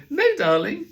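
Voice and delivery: very high, loud sing-song answer; highest voice. Retold or imitated. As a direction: squeak the answer up high to hide. Parent's answer in the toilet.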